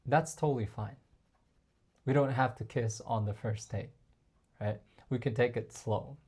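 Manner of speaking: soft and easygoing; quiet reassurance; calm, unbothered. Shown as a demonstration. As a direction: let it go without pressure. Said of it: "a little punishment".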